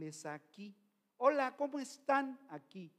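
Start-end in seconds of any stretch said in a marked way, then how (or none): 1.2-2.4 higher, forward-placed "Hola, ¿cómo están?"; demonstrating front-of-mouth Spanish on "Hola, ¿cómo están?"; labiodental Spanish. Shown as a demonstration. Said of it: "Es labiodental el español".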